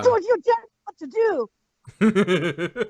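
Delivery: fast, mock Scottish accent; broad scottish accent. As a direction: snap it in a hammy Scottish brogue. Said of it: "speak with a thick Scottish accent".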